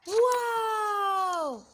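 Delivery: put-on high excited kids' yell; kids yelling. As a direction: shout it like gleeful children. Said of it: "yelled the kids".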